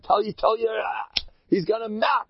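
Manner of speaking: mildly alarmed friend in a story; retold worried Jew. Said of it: "so he tells his friend".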